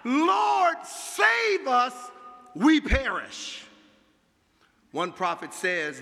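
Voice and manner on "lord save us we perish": high, loud, slow plea; desperate cry. A narrator's reading. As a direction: cry out for rescue from the waves. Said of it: "they cry".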